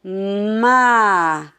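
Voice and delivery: "Ma" split into a long mmm, then a; letters sounded apart. Shown as a demonstration. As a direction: sound "Ma" as m and a, separated. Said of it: "pronunciar as duas letras separadas". ("Ma" com as letras separadas)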